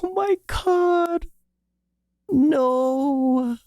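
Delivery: high, teary gush; overwhelmed by cuteness. Real, not acted. Watching the baby deer, gushing and near tears. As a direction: squeal like it's too cute to bear. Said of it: "I'm gonna cry".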